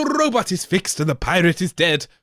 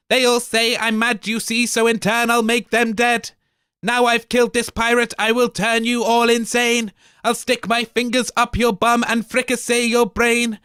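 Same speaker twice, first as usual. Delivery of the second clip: higher voiced mad robot gloating; crazy robot; 4 semitones higher than usual. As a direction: rant like a deranged machine. Crazy robot speaks in the play.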